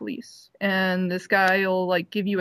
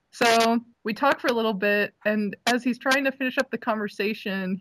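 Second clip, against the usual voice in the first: ordinary delivery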